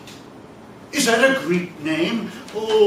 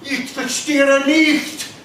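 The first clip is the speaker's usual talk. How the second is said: mock German; 4 semitones higher, slower than usual. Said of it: "speak any more German".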